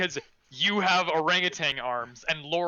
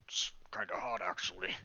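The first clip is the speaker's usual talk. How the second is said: whisper; 8 semitones lower, 11 dB quieter than usual. Acted. NPC confides a secret aside.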